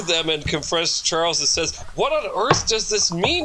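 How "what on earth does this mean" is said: demanding. A narrator's reading. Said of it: "he demanded".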